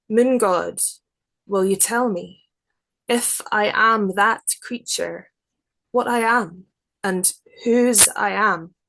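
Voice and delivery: measured, unhurried poetry reading; poem reading. Acted. Poet reading her werewolf prayer to the interviewer, measured poetry voice.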